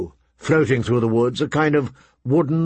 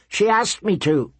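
high-pitched, pleading excuse; fearful; 7 semitones higher than usual. A narrator's reading. Butcher's boy excuses himself to the prince, fearful. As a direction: plead nervously in a boy's voice. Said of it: "frozen with fear".

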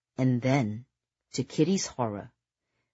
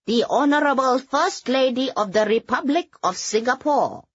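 formal announcement, pitched higher and louder; butler announcing; 10 semitones higher, 4 dB louder than usual. Acted. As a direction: announce the guest like a court butler. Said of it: "the butler standing by the double doors announced".

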